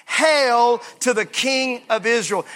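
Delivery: slow call for the church to repeat; call and response. Shown as a demonstration. Pastor leading the church to repeat it, slow. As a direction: lead the crowd slowly. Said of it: "Everybody say that with me".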